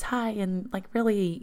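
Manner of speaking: put-on high, slow, sweet pageant-girl voice. Shown as a demonstration. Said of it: "stereotypical kind of pageant girl voice".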